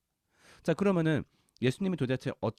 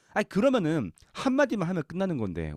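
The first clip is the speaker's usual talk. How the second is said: normal talking voice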